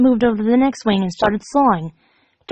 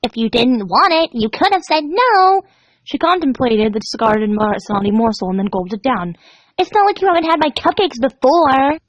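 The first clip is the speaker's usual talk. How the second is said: pouty Pinkie; 2 semitones higher than usual. Acted. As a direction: sulk over the refusal. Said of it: "Pinkie frowned".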